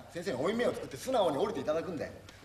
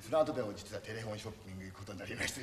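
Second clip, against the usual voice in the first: pained mock confession; 8 semitones lower, 8 dB quieter than usual. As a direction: sound hurt as you confess. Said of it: "痛々しく倒れろ". (痛々しく、低く弱々しい声で)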